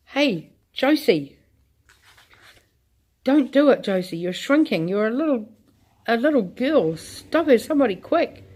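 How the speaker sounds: husband begging wife to stop; alarmed pleading. Acted. Husband sees wife shrinking.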